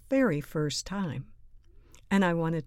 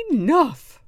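loud, high teacher's shout; forceful raised order; stern command; 6 semitones higher, 11 dB louder than usual. A narrator's reading. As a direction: put a firm stop to it. Teacher halts the chaos.

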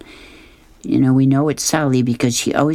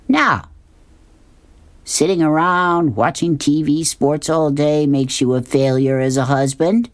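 high cartoon voice; 3 semitones higher than usual. Fillmore replies.

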